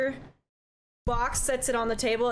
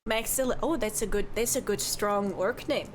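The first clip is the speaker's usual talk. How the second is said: lightly voiced chatty Midwestern barkeep; cheerful innkeeper who says don't you know; folksy bartender; 2 semitones lower than usual. Bartender chat.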